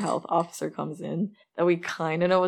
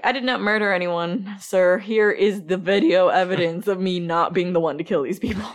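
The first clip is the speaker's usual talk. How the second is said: louder, stiffly polite mock defence; mock formal protest; 6 dB louder than usual. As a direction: play it like a prim witness pleading innocence. Imagined protest to the cops.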